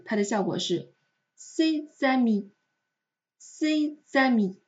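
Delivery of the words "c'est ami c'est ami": C'EST AMI linked as "sé-zami"; liaison with Z. Shown as a demonstration. Teacher shows the joined effect, Z linking C'EST AMI. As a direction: put a voiced Z before AMI. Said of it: "连在一起读，它的效果是".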